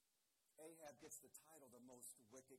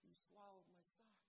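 shocked; 3 semitones higher, 10 dB quieter than usual. Acted. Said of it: "all of a sudden in shock".

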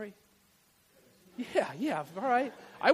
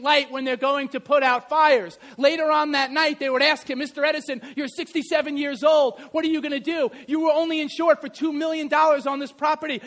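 higher, louder preacher build; fired-up preaching; 3 semitones higher, 4 dB louder than usual. Acted. Scene: pastor telling the congregation Edison's story, preaching at full force. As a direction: drive the story home to the congregation.

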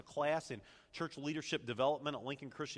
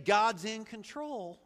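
raised, drawn-out declaration; confident affirmation; 7 semitones higher, 4 dB louder, slower than usual. Acted. Preacher voices what the mind says, confident declaration. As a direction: state it firmly, slow and high. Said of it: "intellectually, we're saying".

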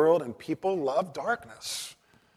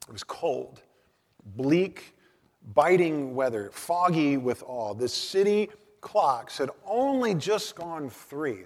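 louder, slow, weighty book reading; dramatic reading; 2 semitones higher, 5 dB louder than usual. Acted. Preacher reads Dickens' bleak opening aloud, dramatically. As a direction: read Dickens aloud to set a bleak scene. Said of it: "listen to how Dickens describes the scene".

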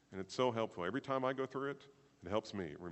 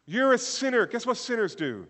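high, loud preacher's punchline; loud calling out; 14 semitones higher, 14 dB louder than usual. Real, not acted. Preacher confronting the congregation about sin, loud calling out. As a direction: call it out high and forceful.

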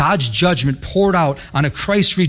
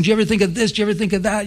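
higher-pitched, rattled-off questions; excited preacher going off; 4 semitones higher, much faster than usual. Retold or imitated. Preacher going off on two listeners, excited. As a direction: fire questions off in an eager run. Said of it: "I'm going off".

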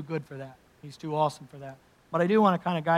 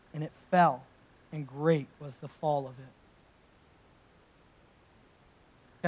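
scripture reading; 3 dB louder than usual. Acted. Rereads the Scripture passage.

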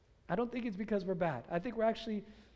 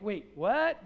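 louder, startled double take; mock disbelief; 5 dB louder than usual. Stunned listeners questioning Jesus' story, in mock disbelief. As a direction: act out a baffled listener.

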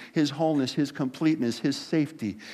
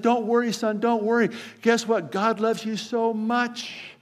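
lightly acted reassurance, pitched up; parent reassuring son; 6 semitones higher than usual. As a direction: soothe a panicking kid in a high, insistent voice. Parent soothes panicking son in story.

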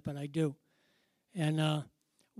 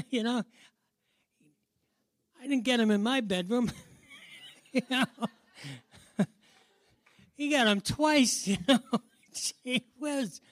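joking through bursts of laughter, pitched up; amused laughing; 4 semitones higher than usual. Real, not acted. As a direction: chuckle helplessly between the phrases. Laughing as he jokes about himself.

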